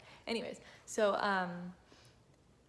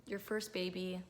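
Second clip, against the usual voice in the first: choked up. Real, not acted. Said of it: "I could cry right now".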